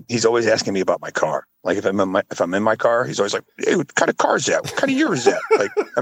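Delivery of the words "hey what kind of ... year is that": lightly mocking, high-pitched questions; imitated nosy questioner. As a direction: impersonate an over-curious friend, pitched up. Imitates Joe asking about cars.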